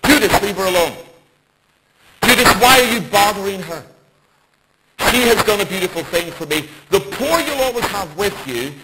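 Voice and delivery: rebuking Judas. Retold or imitated. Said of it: "Insert this".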